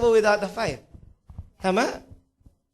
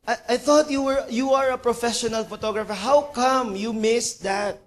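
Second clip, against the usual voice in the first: a touch of indignation, pitched up; mild acted anger at a slip-up; mildly angry; 4 semitones higher than usual. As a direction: scold the photographer in disbelief, mildly. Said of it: "Nagalit siya".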